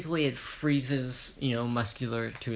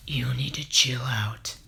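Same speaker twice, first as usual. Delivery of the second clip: a failed try at a deep voice, whispered; deep voice attempt; 4 dB louder than usual. Hero tells Muscular to chill, failed deep voice. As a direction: reach for a deep voice and miss it into a whisper. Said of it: "that's not the voice".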